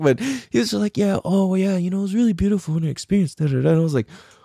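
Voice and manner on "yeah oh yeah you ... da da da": high, gentle, soft-spoken intellectual voice. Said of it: "He's all soft and soft spoken".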